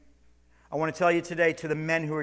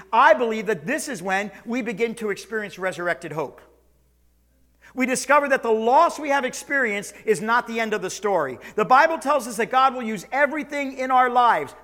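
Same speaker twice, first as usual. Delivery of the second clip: loud, high preaching climb; full-force preaching; 7 semitones higher, 8 dB louder than usual. Real, not acted. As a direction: build the sermon to a ringing peak.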